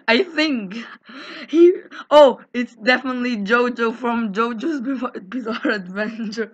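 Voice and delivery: words through giggles; laughing. Real, not acted. Player jokes to the group while laughing. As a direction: talk while cracking up.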